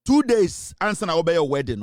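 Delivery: shouted high and loud; angry shout. Real, not acted. Host threatening a man over his secrets, shouting. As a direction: bark it out as a threat.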